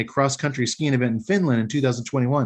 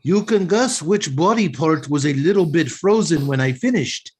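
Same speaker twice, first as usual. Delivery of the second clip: bad Finnish accent; 2 semitones higher than usual. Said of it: "I don't have a Finnish accent".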